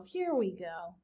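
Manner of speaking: whispered weary aside; muttered aside. A narrator's reading. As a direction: sigh it under your breath. Furlow groans aside.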